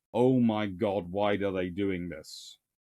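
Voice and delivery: mock sarcastic exasperation. Explaining a strategic situation with a warning of sarcasm: mock sarcastic exasperation. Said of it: "one large sarcastic".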